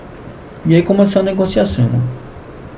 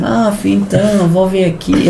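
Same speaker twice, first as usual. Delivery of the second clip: imitating grandma; 5 semitones higher than usual. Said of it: "Ela falou desse jeito".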